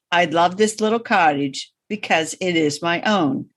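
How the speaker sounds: measured poem recitation, pausing between lines; poem reading voice. Shown as a demonstration. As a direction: read it like a cherished poem, line by line. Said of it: "I got my poem reading voice going".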